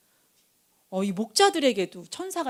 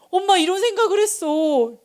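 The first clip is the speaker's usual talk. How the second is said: put-on high, raised child's voice; child confiding in Mom; 8 semitones higher, 4 dB louder than usual. Child confessing thoughts to mom, high and insistent. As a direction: play a child owning up to Mom.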